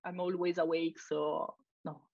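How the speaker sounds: tired, drowsy voice; sleepy voice. Real, not acted. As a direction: talk as if half asleep. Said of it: "You can feel my sleepy voi-, hear my sleepy voice".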